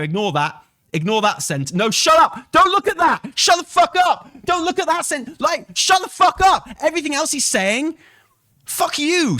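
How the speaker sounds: high, loud furious yelling; furious shout. Real, not acted. Streamer screaming at chat to shut up, furious.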